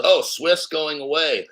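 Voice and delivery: mock the other channels like crybabies; sneering parody of doom talk; mocking whine. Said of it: "all that fucking dumbass shit".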